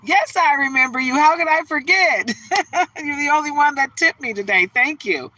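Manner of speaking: high, loud, sugary voice; gracious mock thanks. Thanking the only one who tipped, sugary high voice. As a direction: play the flattered performer.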